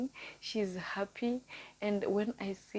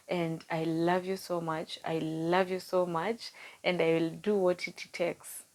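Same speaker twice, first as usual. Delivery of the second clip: emotional. Real, not acted. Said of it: "Oh, that was emotional".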